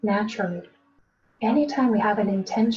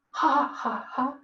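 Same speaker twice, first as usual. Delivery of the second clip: demo laugh; 2 semitones higher, slower than usual. Shown as a demonstration.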